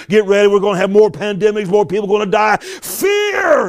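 rising mock alarm ending in a high shouted fear; hammed-up doomsayer building to a yelp; preacher mocking fear talk, building to a shout. Mocking the fearmongers.

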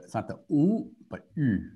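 "u" said with rounded lips, not "ou"; French u sound. Shown as a demonstration. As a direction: contrast "ou" against French "u". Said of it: "it's like the".

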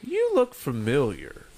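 lightly voiced stripper, sizing him up; stripper's recognition. Stripper to a half-recognised customer, lightly acted recognition. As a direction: retell her remark with a small lift. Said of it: "she just goes".

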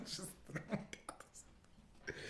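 breathless, voiceless laughter through the words; words lost in a laugh. Real, not acted. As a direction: squeeze the words out while cracking up. Cracks up at own bit.

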